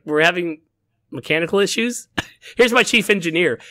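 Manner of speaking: captain echoing the excuse, half-laughing in disbelief; incredulous question. Retold or imitated. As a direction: repeat the excuse as if baffled by it. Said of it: "she's like".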